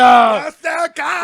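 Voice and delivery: high, loud robotic shout; Terminator voice. Pretend. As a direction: bark it as the Terminator. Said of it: "it is the Terminator".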